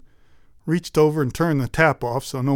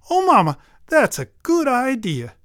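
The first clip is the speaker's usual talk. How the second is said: put-on bright, higher girlish reply; a higher eager daughter's voice; 8 semitones higher, 4 dB louder than usual. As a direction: chirp back to mama like a happy daughter. Elsa answers her mother.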